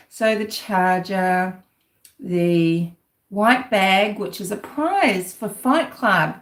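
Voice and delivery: slow, dry sarcastic listing; drawn-out sarcasm, each item weighed. Acted. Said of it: "this is sarcasm".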